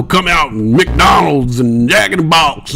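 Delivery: hammed-up American ad announcer; American fast food ad voice. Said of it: "that's an American accent".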